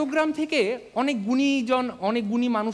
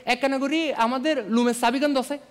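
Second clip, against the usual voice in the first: put-on Chittagonian accent. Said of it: "রিসেপশনে আগে আগে গিয়ে বলছে যে".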